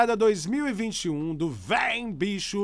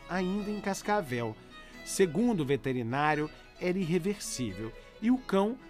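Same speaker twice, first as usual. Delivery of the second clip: letter reading. Acted. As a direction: read the letter gently over music. Reads listener's letter over music.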